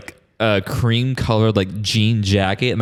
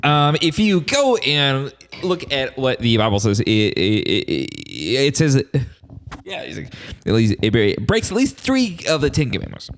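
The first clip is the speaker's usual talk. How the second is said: stammering pundit impression, slightly raised pitch; Ben Shapiro; 2 semitones higher than usual. Co-host quoting the Bible at his friend, stammering pundit impression. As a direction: stumble and repeat words like a debating pundit. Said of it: "not speaking fast enough for it to be Ben Shapiro".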